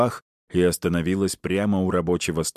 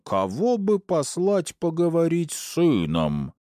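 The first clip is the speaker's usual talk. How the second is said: high, slow sneering parody of her husband's voice; wife mocking her husband's voice with heavy sarcasm; sarcastic mock husband; 11 semitones higher than usual. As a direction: mimic his voice with sarcasm. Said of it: "Полным сарказма голосом изобразила Персифона бас мужа".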